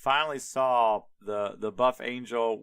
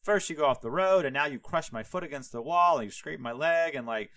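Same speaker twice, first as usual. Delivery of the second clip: mock exasperated rant at a donkey; half-earnest irritated scolding; retold outburst; 3 semitones higher than usual. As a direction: act out losing it, lightly. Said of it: "he loses his shit".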